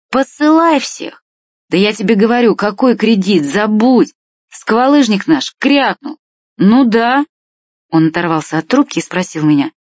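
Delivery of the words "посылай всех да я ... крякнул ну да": raised, high-pitched excited voice, short of a shout; shouting into phone. A narrator's reading. Stas tells Vlad on the phone to forget debts, calling out excitedly. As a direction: call it down the line, pitched up and emphatic. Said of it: "продолжал кричать в трубку".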